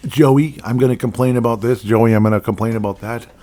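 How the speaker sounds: whiny fan calling out Joey; imitating fans griping at Joey; mock complainer.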